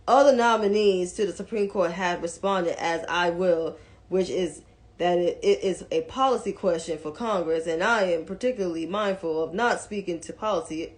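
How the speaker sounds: a hint of the senator's accent, low and soft; Mitch McConnell. Commentator quoting the senator's policy answer, lightly imitated accent. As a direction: lightly mimic his talk, dropped in pitch. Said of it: "'cause I'm doing his accent".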